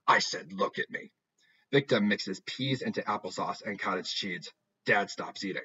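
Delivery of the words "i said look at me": a hint of a low, menacing mother; lightly voiced warning that means business; death voice. Mother ordering her daughter to look at her, low menace. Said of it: "This is the death voice".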